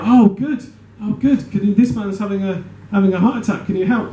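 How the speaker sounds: high, hurried plea for help; urgent relief. Acted. Crew begs the doctor to help a heart-attack victim, urgently. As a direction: jump up in pitch with relieved urgency.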